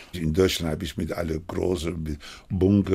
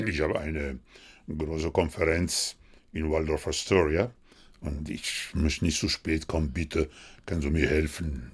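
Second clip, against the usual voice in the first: deep voice; 5 semitones lower than usual. Retold or imitated. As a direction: drop into a deeper voice to pose as Pelé. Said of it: "ja, mit tiefer Stimme, weil Pelé redet".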